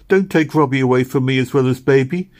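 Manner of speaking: put-on a girl begging God to spare her brother; earnest weeping prayer; desperate prayer. A narrator's reading. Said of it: "she cried".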